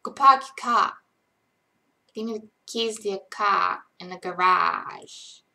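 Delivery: Boston accent with dropped R's. Shown as a demonstration. Streamer demands keys to the car, Boston accent. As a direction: start loud in a put-on Boston accent. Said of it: "in a Boston accent".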